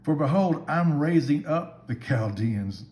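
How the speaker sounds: loud, slow declaration; solemn announcement. Acted. Preacher voicing God's warning about the Chaldeans, slow and loud. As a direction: proclaim it slowly and weightily.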